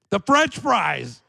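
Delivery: loud, high, slow exclamation; mock eureka outburst; sudden realisation. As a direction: cry it out like a revelation. Acted sudden realisation on the plane.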